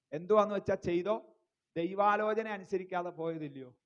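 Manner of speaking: loud retold scolding from a wife; wife's rebuke. Wife hands the crying baby to her husband, loud retold rebuke.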